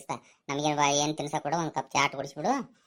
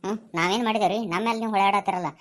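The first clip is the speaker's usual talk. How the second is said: high pleading protest; 5 semitones higher than usual. Acted. Pleads innocence to mother.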